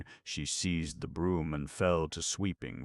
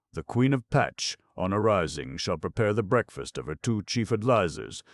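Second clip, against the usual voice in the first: pompous reading; 6 semitones higher, 8 dB louder than usual. A narrator's reading. Peacer reads the duties list.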